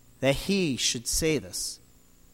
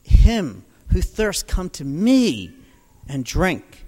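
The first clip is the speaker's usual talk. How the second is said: proclaiming; 5 dB louder, slower than usual. Retold or imitated. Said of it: "And Jesus is saying".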